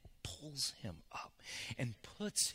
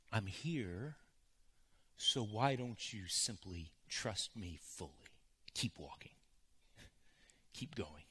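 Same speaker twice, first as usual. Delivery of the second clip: softer and lower, fading to a hush; gentle Jesus; 4 semitones lower, 4 dB quieter than usual. Retold or imitated. Jesus reassuring the struggling listener, soft and fading. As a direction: coax them gently to keep walking.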